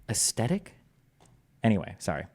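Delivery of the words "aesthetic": incredulous "as-stetic" with rising end; mock the t for th in aesthetic; mispronounced aesthetic. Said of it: "pronounce aesthetic, aesthetic".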